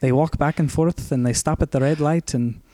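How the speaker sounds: light put-on Scottish lilt; Scottish accent. Continuing the Scottish woman's monologue in a mock Scottish accent. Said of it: "pitch perfect Scottish accent".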